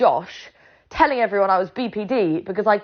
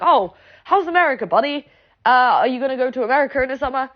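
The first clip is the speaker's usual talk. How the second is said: imitated teasing friends; 3 semitones higher, faster than usual. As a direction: tease him like a buddy, pitched up.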